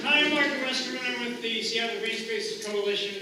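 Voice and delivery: booming ringmaster MC voice. Real, not acted. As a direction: announce yourself like a circus MC. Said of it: "This is my circus, uh, voice, uh, M C voice".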